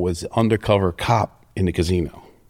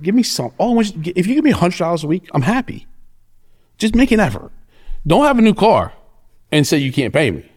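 mock pleading; 9 semitones higher than usual. Retold plea to debtor, pitched up.

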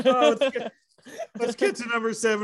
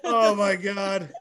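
laughing; 2 semitones higher, 3 dB louder, much slower than usual. Real, not acted. Laughing at the joke.

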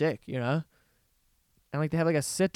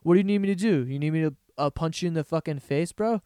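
eager dupe. Retold or imitated. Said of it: "They're all just like".

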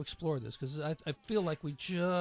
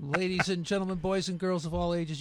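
ringmaster; 3 semitones higher, 6 dB louder than usual. Acted. Radio host's circus-style sign-off.

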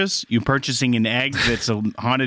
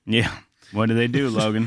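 disappointed; 3 semitones lower than usual. Real, not acted. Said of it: "you sounded so disappointed".

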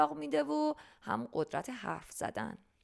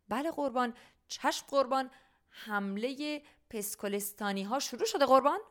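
confused sergeant; 5 semitones higher than usual. Acted. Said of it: "که پاک گیج شده بود گفت".

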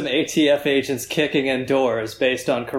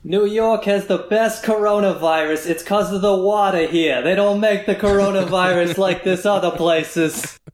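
higher, louder boastful New Yorker in a hammed-up American accent; mock American accent; 6 semitones higher, 3 dB louder than usual. Mock Italian podcast brags about New York coronavirus, hammed-up American accent. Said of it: "an American accent".

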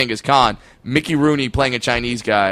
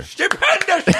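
high, hammed-up British accent; mock-British, pitched way up; slower than usual. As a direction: exclaim it in a put-on British voice. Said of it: "Somehow, always in a British accent".

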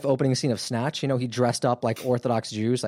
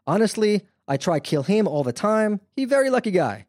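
put-on thick Russian accent, joking tone; heavy Russian accent, tossed off like a joke; Nayfeld, Russian accent; 8 semitones higher than usual. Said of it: "he has that real thick Russian accent".

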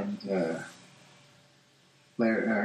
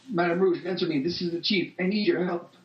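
chief voice; 5 semitones higher than usual. Acted. Chief's radio call.

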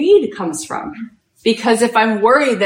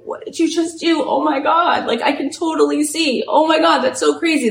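higher, awestruck gasps of disbelief; retold stunned amazement; 7 semitones higher than usual. Healed cameraman marvels at the shaman, in higher-pitched retold astonishment. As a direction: play the amazed cameraman who can suddenly see.

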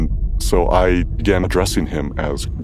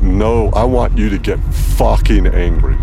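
much louder, rising to a high scream; furious yell; 6 semitones higher, 8 dB louder than usual. Retold or imitated. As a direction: shout her into rage. Healer yells at sister to fight.

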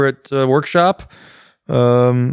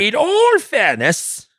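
mock solemn; 11 semitones higher, much slower than usual. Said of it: "Monty Python bit".

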